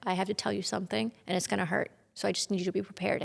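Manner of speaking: soft, hushed bad news; quiet careful words; gentle warning. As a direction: prepare her gently for grief. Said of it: "he just holds me".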